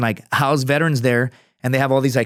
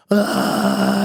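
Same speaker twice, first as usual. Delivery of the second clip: retold cry; 8 semitones higher than usual. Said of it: "I was, like, screaming".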